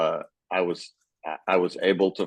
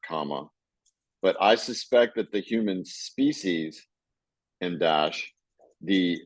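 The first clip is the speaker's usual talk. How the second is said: reading with spoken punctuation. Shown as a demonstration. Teacher reading a sentence to the class, calling out the punctuation. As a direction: read it out, saying every mark aloud. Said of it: "I'm gonna speak the punctuation marks and capital letters aloud".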